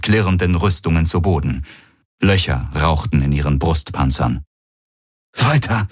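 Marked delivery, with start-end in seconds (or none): 5.4-5.9 breathless pained urging; short panting command; gasping. Acted. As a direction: gasp the word out. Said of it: "keuchte Garland".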